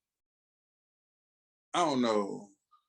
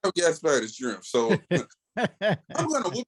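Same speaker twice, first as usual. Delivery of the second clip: hammed-up hero taunt; 10 semitones higher than usual. Acting out comic fight.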